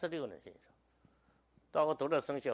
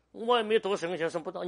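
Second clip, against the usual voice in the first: put-on young Moody protesting; 6 semitones higher, 8 dB louder than usual. Moody voiced in the story.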